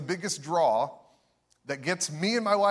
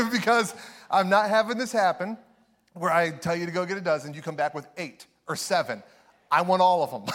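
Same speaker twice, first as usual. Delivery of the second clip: hammed-up greedy insistence; aunt laying down the fritter law; demanding aunt; 3 semitones higher, 5 dB louder than usual. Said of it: "she goes".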